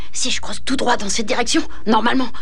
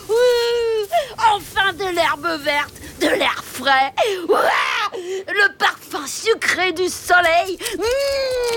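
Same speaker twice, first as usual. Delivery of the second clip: delighted; 5 semitones higher, much slower than usual. Acted. Respire l'air frais, émerveillé.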